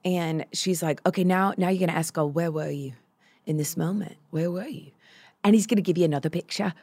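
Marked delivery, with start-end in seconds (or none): 1.1-6.7 Mia. Retold or imitated. Prayer leader tells a sobbing girl what to ask God, lightly imitated. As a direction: gently mimic someone guiding a prayer. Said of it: "You do Mia very well".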